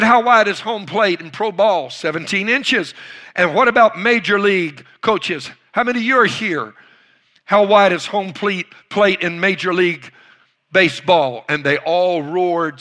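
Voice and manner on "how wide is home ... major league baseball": loud, raised questions, pushing harder; building call to the crowd. Retold or imitated. Old coach quizzes major league coaches, loud and raised. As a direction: drive the crowd toward the answer.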